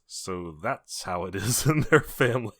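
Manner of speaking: slow, deliberate movie quote with a laugh; Ed Rooney quote. Acted. Retelling the school pickup scene, slow amused quote. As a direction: draw it out slowly, laughing midway. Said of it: "Ed Rooney goes".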